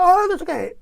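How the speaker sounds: very high-pitched wordless ranting; mock yell. Retelling a musician yelling at the speaker, mock high yell. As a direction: imitate a yell without extra volume. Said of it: "me grita".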